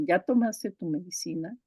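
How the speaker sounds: "¿Ya tomaste tu medicina?" with a rising end; wife asking her husband, rising on "medicina"; question tune. Shown as a demonstration. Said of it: "la señora le pregunta al marido".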